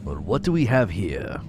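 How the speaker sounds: a hint of a stiff army officer reading; officer reading his log. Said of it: "I'm not doing a German accent".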